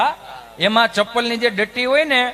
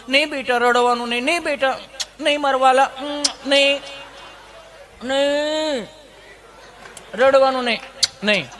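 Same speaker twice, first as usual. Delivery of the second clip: hushing mother; 3 semitones higher than usual. Retold or imitated. Mother hushing crying child.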